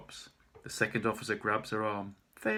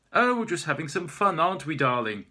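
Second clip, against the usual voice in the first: fake sweet; 6 semitones higher, 8 dB louder than usual. Maeve faking sweetness to police.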